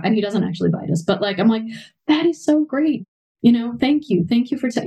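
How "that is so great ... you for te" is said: enthusiastic praise. Retold or imitated. Praising child for naming feelings.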